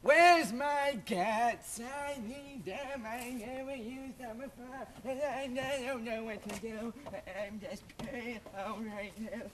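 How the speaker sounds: lightly voiced confused old lady, mumbling; dotty absent-minded old lady. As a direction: wander and fret about the cats. Senator rambles for lost cats.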